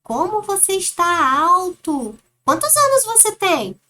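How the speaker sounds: voz aguda e forte de espanto; adulto admirado. Acted. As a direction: pergunta à criança, bem agudo e alto. Adulto pergunta à criança na história. (adulto admirado com a altura da criança)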